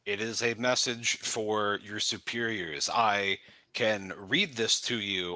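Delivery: slow, formal messenger delivery; a hint of a stately envoy; lightly voiced herald. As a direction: announce tidings with measured ceremony.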